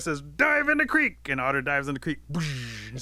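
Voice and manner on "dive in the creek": high, slow, stretched-out yell; loud, drawn-out alarm call; urgent shout. A narrator's reading. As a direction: holler an emergency order. Rabbit urging escape from fire.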